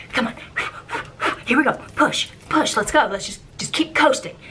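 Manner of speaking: willing the boat forward; urging the boat. Retold or imitated. Skipper coaxing her dead boat toward the dock.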